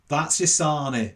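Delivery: a hint of the local fella, drawn out; street fella. Fella eyes the student's sandwich, lightly imitated street fella. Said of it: "he goes".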